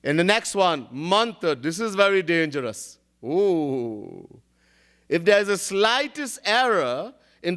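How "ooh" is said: low drawn-out "ooh"; awed ooh. Shown as a demonstration. Preacher warns listeners of the danger, awed ooh. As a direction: let out a low, falling ooh.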